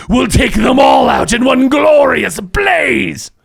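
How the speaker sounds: slow, ringing shout; villain's grand declaration. Acted. Game master voicing Hitler vowing a fiery end, slow shout. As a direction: declaim it slowly like a doomed tyrant. GM voices Hitler's suicide speech.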